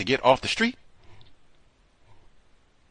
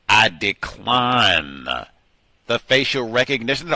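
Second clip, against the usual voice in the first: say it loud; slower than usual. Shown as a demonstration. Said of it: "you should say it loud".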